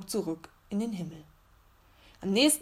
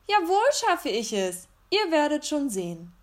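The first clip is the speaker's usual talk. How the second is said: called out higher and louder after someone; defiant shout; 7 semitones higher, 3 dB louder than usual. A narrator's reading. Little bear shouting up at the teasing star, defiant. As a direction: yell it defiantly up into the sky. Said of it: "der Bär schrie ihm hinterher".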